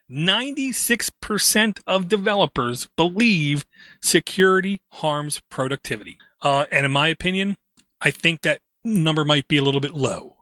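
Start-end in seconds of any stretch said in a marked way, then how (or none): 0.1-6.1 slow, deliberate, drawn out, slightly raised. Repeating a website's claim for listeners, saying it slowly. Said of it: "I'm going to say that slow".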